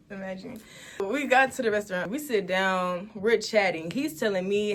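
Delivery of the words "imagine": "Imagine" tossed off in a quick laugh; laugh, then say "Imagine" again. Retold or imitated. Retelling his awkward joke, laughing it off. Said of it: "Imagine if you just went home".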